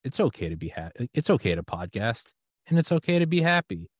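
calm yourself down gently; soothing inner voice. Retold or imitated. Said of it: "the little voice is like".

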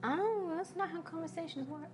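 put-on young girl voice. Dwarven girl NPC voice.

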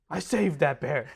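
mock-proud Southern dad; Southern accent. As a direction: insist it with a comic Southern twang. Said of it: "he's becoming more southern".

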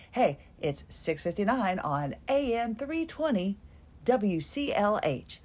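mild radio-host greeting, slowing on the call letters. Retold or imitated. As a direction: imitate your own on-air station ID. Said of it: "my radio voice".

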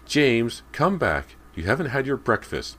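high, loud, frantic calling. A narrator's reading. Mother calling her son back inside, frantically. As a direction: call the child back urgently. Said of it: "Missus Fraser called frantically".

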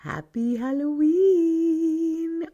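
high, slow, drawn-out Happy Halloween; sing-song greeting. Real, not acted. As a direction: stretch it out like a cheer.

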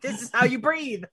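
barked drill sergeant order; a drill sergeant teaching breathing, up in his face. Retold or imitated. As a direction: bark it like a drill instructor. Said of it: "Like a drill sergeant".

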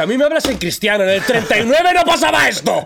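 high, hammed-up grumpy old-timer's voice; mock old reactionary. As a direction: play a cranky nostalgic old man, overdone. Suggests a reactionary old-timer's retort. (imitando con sorna a un viejo cascarrabias)

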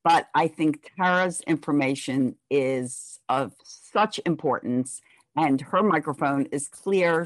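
ordinary delivery

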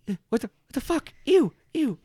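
high, fast shriek of disgust; disgusted NPC. Acted. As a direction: squeal it out, grossed out. GM voices startled NPCs.

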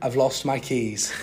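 slow, put-on British accent. Podcaster admits the mishap to co-host, slow British accent. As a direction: confess it slowly as a British man. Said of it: "I'll speak in a British accent".

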